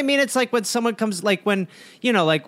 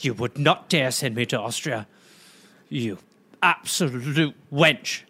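much lower, drawn-out affront; low mock defiance; 10 semitones lower, 5 dB quieter than usual. Young Charles defying his mother over Austria, low mock outrage. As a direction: drop low and draw out the insult.

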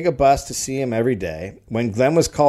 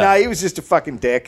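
Glenn voice; 6 semitones higher, 3 dB louder than usual. Acted. Voicing Glenn.

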